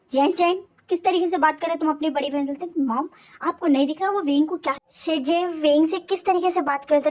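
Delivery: a touch of acted anger; angry retort. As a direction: snap back at him. Mother and sister snap back.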